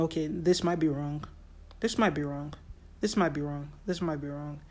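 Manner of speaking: soft, hushed repeated warning, fading; a gentle red line's quiet hint; gentle nudge. Retold or imitated. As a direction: point out a mistake kindly and quietly. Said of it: "just a gentle red line".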